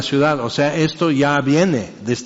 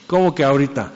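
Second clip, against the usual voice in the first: lazy reply; faster than usual. Retold or imitated. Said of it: "Como señora cara de papa".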